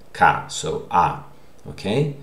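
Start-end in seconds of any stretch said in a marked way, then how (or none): 0.1-0.5 ka alone, said with a full open vowel; stressed syllable. Shown as a demonstration. Teacher showing the stress in the goodbye word, stressed ka. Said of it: "the stressed vowel is, syllable is".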